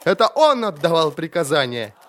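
high, accusing cry; cried out. A narrator's reading. Prisoner accusing the magister, crying out. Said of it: "немедленно выкрикнул Хорнлах".

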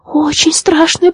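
moaning. A narrator's reading. The frightened sprite moans to his father, slowly. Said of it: "простонал маленький водяной".

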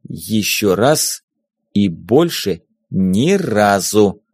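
slow, deliberate words, each one spaced out; a cold warning, spelled out slowly; loud and clear. A narrator's reading. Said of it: "Уже громко и отчётливо произнесла".

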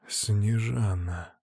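slow, soft naming; menacing low hush; quiet. A narrator's reading. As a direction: say her name quietly, slowly. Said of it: "произношу негромко".

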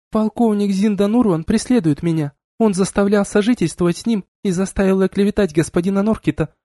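high, steady report; female officer reporting. A narrator's reading. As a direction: state the complaint to the captain. Woman reports to captain. (высоким голосом, докладывает капитану)

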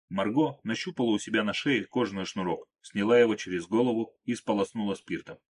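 usual speaking voice

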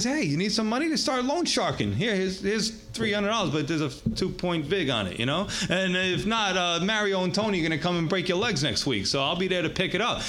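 hammed-up Bronx loan shark; Bronx style. Wealthy noble offering a loan to struggling brothers, Bronx style. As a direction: make the pitch like a Bronx street lender. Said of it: "Bronx style there".

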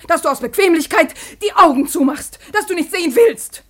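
accusing. Acted. Daughter accuses father, rising.

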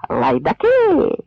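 very high, ringing insult shouted down; metallic shout. Acted. A Pole on the wall shouting at the cossacks, in a ringing metallic cry. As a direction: spit the word down like steel. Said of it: "металевий голос".

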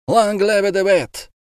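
high, slow cheer; crowd cheer. A narrator's reading. Crowd cheering the judge's verdict, high slow cheer. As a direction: hail the law as a crowd. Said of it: "закричала толпа".

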